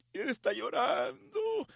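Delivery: high, drawn-out emotional telling; moved to tears. Retold or imitated. Telling how his friend wept, moved to tears.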